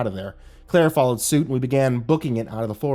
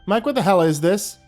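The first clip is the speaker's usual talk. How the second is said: loud, furious demand; angry shout; 8 semitones higher, 6 dB louder than usual. Acted. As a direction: yell it at him in anger. Counselor yelling at Mike.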